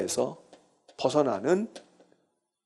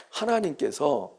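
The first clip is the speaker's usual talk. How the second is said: soft repeat; 3 semitones lower, 6 dB quieter, slower than usual. Shown as a demonstration.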